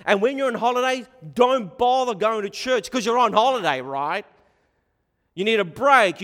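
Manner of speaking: loud, high, coaxing tempter voice; a sweet-talking tempter urging a holiday; mock tempter. Preacher mocking a worldly tempter, loud coaxing pitch.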